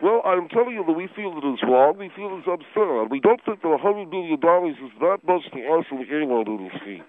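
talking with a mouthful; words through a mouth full of food. Acted. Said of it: "swallow whatever it is you're eating".

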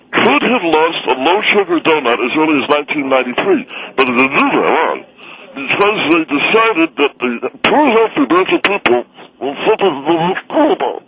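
talking through food; chewing while ranting; mouth full. Real, not acted. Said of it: "could you please swallow what you're eating?".

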